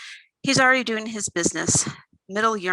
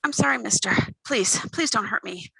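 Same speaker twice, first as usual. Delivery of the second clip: pathetic whiny voice; 2 semitones higher than usual. Acted. Thief fakes a whiny plea to the man twisting her arm. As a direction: play the helpless kid, whining for mercy. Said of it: "I use my pathetic, whiny voice".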